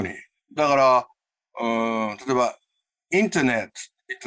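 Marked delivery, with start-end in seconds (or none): 3.1-4.3 インターネット with a full "taa" in katakana sounds; slowly spelled-out Japanese reading of インターネット; katakana pronunciation. Shown as a demonstration. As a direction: say インターネット in plain Japanese syllables, t clearly sounded. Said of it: "インターネットって言うと結構英語っぽい".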